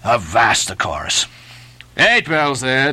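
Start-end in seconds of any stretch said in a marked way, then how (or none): 2.0-2.9 lightly voiced sailor, only a little raised; a mild echo of the mate's order; sailor repeating the call. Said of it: "Second Nantucket sailor".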